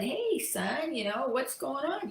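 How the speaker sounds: lightly acted, kindly concern; friendly greeting. Older man greets downcast stranger.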